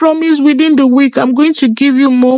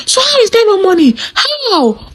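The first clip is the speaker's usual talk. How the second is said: incredulous laugh; 8 semitones higher than usual. Acted. Incredulous outburst at broken promise.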